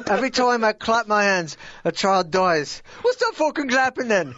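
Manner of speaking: stage Irish, punchline jumps up in pitch; a rock singer. Pretend. Host telling a joke as a rock star, mock Irish voice. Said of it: "tell a joke as Dave, as Bono".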